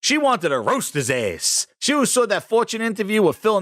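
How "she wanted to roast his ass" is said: ordinary talk, nothing marked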